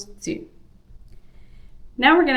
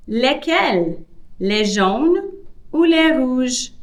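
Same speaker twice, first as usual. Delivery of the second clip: female character voice; 5 semitones higher than usual. Acted. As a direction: play the kiosk seller asking which ones. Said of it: "a different voice for the female character".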